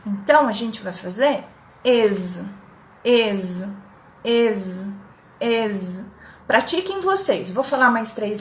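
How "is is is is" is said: is said like Portuguese "ê" with a buzzing Z; is with a closed E and voiced Z; native pronunciation. Shown as a demonstration. Teacher models native is for the class. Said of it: "É o E com circunflexo e Z".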